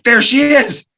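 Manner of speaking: high and loud, thrilled; excited. Retold or imitated. Radio host spotting Julia Roberts in the lounge, excited. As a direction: spot the star and light up.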